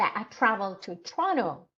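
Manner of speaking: Toronto as the keyword, stressed. Shown as a demonstration. Teacher models sentence stress on the answer word. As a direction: lean on Toronto. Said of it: "you put in stress on Toronto".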